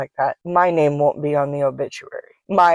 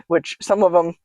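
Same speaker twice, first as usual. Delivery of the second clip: talking through hiccups; hiccuping mid-sentence; 2 semitones higher than usual. Real, not acted. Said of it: "sorry, I got the hiccups".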